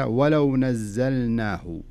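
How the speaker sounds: ولو with the lam sounded clearly. Shown as a demonstration. Teacher reciting to student, showing the lam of ولو. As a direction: say ولو slowly, lam held and audible. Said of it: "لاحظ اللام".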